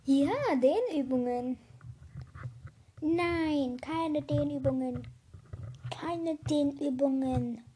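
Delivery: faint, cut-off microphone sound; mic cutting out. Real, not acted. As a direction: voice dropping out on a bad mic. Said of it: "mein Mikrofon war gerade aus".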